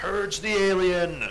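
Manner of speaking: high, slow, loud shouted war cry.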